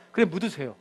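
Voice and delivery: pastor's restrained polite reply; polite version. Retold or imitated. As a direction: say it politely, holding back the anger. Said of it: "말은 그렇게 안 했겠죠".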